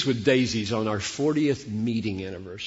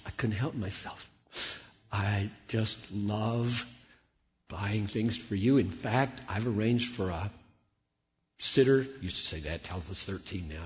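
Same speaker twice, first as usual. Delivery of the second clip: woo her gently; tender husband; 4 semitones lower, 5 dB quieter than usual. Acted. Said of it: "And I say".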